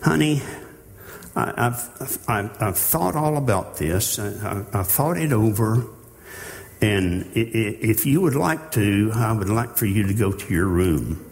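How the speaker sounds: hesitant, stammering, overly sweet parent; timid parent. Pretend. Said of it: "It's not saying to the child".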